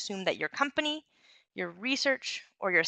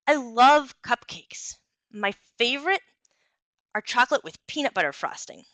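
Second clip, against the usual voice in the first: engaging, varied delivery; 3 semitones higher than usual. Shown as a demonstration. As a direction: sell the cupcakes with varied pitch and pacing. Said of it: "the second one sounded more engaging".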